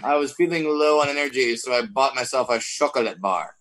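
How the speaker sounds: imitating a pretentious douche; mock douche. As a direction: put on a mildly affected douche voice. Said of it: "that one douche that says".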